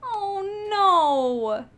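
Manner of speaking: loud, high, falling moan; high wail. Real, not acted. Player mourns killed character, high sorrowful wail. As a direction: wail it out in dismay.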